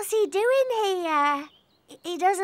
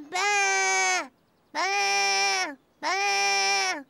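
sheep bleat; much slower than usual. Retold or imitated. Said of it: "makes a funny noise".

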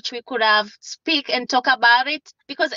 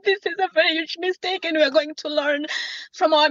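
higher-pitched, tearful begging; emotional plea; 5 semitones higher than usual. Real, not acted. Mother begging Your Honor for mercy, emotional and pleading. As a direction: beg with real upset in the voice. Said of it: "very emotional for all of us".

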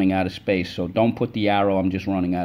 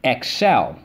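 syllable tapping; 3 semitones higher, 3 dB louder than usual. Shown as a demonstration. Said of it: "Let's go".

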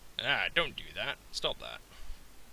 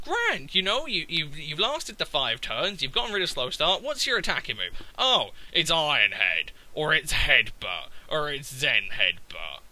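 sarcastic; 3 semitones higher than usual. Retold or imitated. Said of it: "And I sit here thinking".

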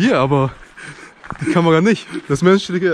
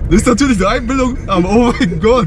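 excited; 4 semitones higher than usual. Real, not acted. Claims he saw something in dark.

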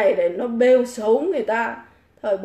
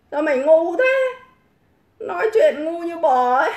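angry scolding; 5 semitones higher, 3 dB louder than usual. Real, not acted. Berates a commenter on livestream.

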